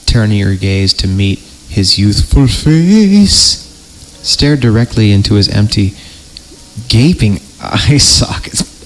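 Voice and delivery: slow, ominous storyteller read; creepy story narration. Acted. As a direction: read it like a campfire horror tale.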